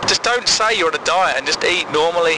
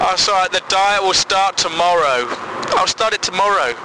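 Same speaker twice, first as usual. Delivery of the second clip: mock dieter excuse; 3 semitones higher than usual. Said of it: "the immortal words of".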